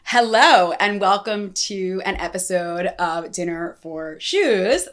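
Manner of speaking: stiff robotic intro read; flat robot voice, evenly paced. Real, not acted. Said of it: "I don't know why I'm talking like a robot".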